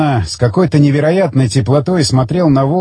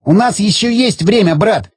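higher, half-laughing through the words; a man cackling at his own doom; laughing hysterically; 6 semitones higher than usual. A narrator's reading. Zagorsky laughing as the bomb lever waits, hysterical glee. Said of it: "Ещё сильнее расхохотался он".

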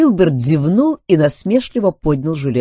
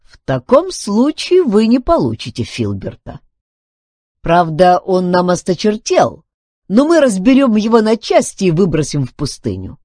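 higher, louder robot making a threat; threatening robot; 8 semitones higher, 6 dB louder than usual. Acted. Robot warns Duncan they will dismantle Filbert, threatening. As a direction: lay down a robot's ultimatum, pitched up.

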